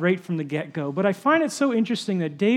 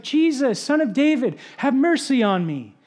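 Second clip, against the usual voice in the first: mild mock cry for mercy, pitched higher; retold crying out; 6 semitones higher than usual. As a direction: call out pleadingly, only half raised. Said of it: "and he cries out".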